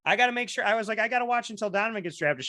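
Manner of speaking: put-on high, fast childish pleading; a boy begging his mom to keep watching; pleading kid. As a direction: beg to stay by the TV.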